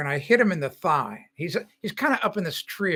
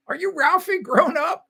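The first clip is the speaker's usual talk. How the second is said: much higher, slow fan voice; a YouTube commenter asking if he is Ralphie, in a high mock voice; excited fan; 13 semitones higher, 3 dB louder than usual. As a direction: mimic an eager online fan. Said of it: "comments on my YouTube videos".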